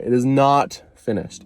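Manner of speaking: slow and deliberate, each word spaced. Shown as a demonstration. Insisting to viewers the tattoo is unfinished, slow and deliberate. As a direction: spell it out slowly like a rule. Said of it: "Repeat after me, not finished".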